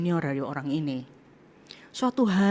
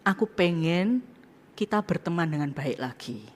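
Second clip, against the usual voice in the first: gentle plea; 4 dB quieter than usual. Retold or imitated. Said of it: "Saya ngomong gini".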